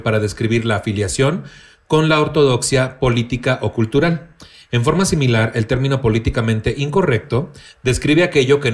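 even, measured read-aloud of a definition. Acted. Host reads a written definition to the co-hosts, reading aloud. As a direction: read it out like a reference entry.

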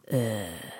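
low, quiet "ugh"; disgusted groan. Real, not acted. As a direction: groan low under your breath. Disgusted reaction to email advice.

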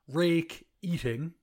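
"Rake Eating" said slowly as two words, RAKE then EATING; joke split name. Shown as a demonstration. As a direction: split "Rake Eating" apart slowly, stressing both halves. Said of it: "which I always thought was funny".

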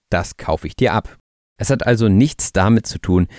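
ordinary talk, nothing marked

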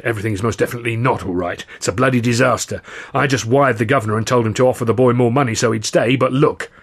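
panting hurried words; out of breath. Acted. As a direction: speak fast, out of breath. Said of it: "he panted".

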